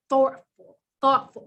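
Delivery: real New York vowel in "thoughtful"; New York accent. Real, not acted. Presenter urging people to step back, New York accent on "thoughtful". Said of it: "My New York accent just really came out".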